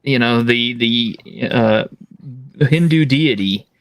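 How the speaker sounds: high-pitched indignant rant. Real, not acted. Outraged fan rant.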